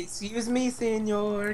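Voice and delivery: put-on joking Spanish-accented request; mock Hispanic accent. Joining the accent bit as a customer, mock Hispanic accent. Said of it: "do a Hispanic accent".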